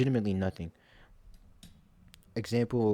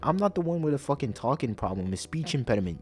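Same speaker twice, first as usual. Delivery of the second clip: heated rant; 5 semitones higher than usual. Real, not acted. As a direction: rant at him, rising in pitch. Ranting at the friend.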